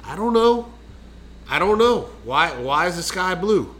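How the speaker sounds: high-pitched exasperated movie quote; Joe Dirt. Acted. Answering co-host's why with film lines, mock exasperation. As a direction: toss up helpless questions, pitched high. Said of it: "that's from Joe Dirt".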